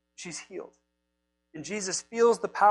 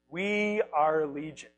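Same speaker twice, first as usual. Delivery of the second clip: slow, drawn-out demon declaration; a hint of ominous, slow announcement; voice of Legion; 3 semitones lower, slower than usual. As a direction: intone it slowly, lightly playing the demon. Voicing the demon-possessed man.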